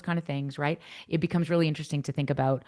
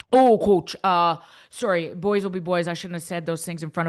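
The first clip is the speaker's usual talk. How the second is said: put-on teen making excuses to coach; sheepish teen; 2 semitones higher, 5 dB louder than usual. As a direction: play the caught kid shrugging it off. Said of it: "player's sheepish reply, acted".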